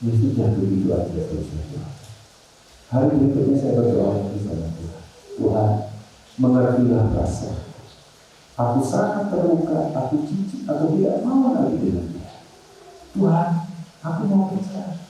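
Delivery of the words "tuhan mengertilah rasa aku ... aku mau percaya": husband begging God, a hint of anguished prayer; pained prayer. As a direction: pour out the hurt to God, lightly acted.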